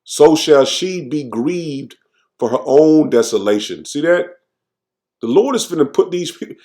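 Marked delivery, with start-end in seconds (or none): 0.0-3.8 slow, solemn reading of the verse; slow scripture reading. Acted. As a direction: lay out each phrase of scripture slowly. Reads scripture slowly in sermon.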